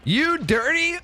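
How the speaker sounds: hammed-up scolding of the players; mock outrage. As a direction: drag out filthy in fake disgust.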